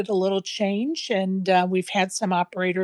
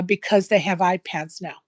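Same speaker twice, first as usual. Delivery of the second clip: ordinary talk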